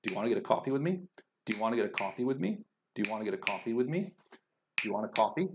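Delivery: quick small words between beats, rising at the end on "me" and "coffee"; stress-timed question. Shown as a demonstration. Teacher asking the example question, stress-timed. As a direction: squeeze "get a" and lift the end of "with me". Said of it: "beat is always falling on those content words".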